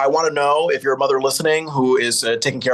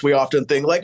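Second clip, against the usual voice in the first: ordinary talk, nothing marked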